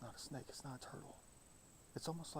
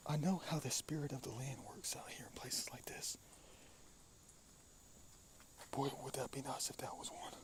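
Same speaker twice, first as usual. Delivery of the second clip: steady unvoiced whisper. Real, not acted. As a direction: whisper it confidentially. Continues in a whisper.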